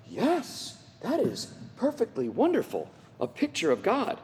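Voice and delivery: soft, lifted admiration; tender delight. Retold or imitated. Father recalls seeing his little girl dressed up, softly delighted. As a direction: marvel gently at the sight.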